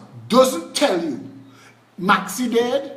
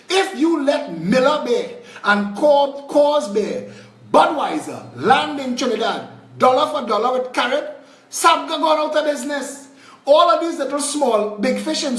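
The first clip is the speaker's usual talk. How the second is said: heated shout; 5 semitones higher, 3 dB louder than usual. Real, not acted. Ranting about beer competition.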